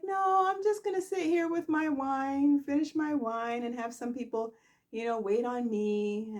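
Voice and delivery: high, lazy voice, savouring her wine; sit back and play the lady of leisure; Sharon lounging with wine. Retold or imitated.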